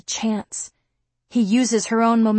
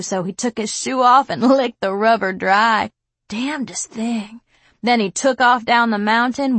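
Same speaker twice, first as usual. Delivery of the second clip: laughing thug; 3 semitones higher than usual. Acted. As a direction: gloat and laugh through the story. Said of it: "The bald one laughs".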